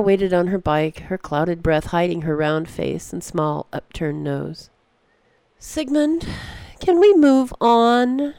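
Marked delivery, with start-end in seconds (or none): 5.6-8.3 put-on high, slow girl's call, drawn out; impatient girl calling.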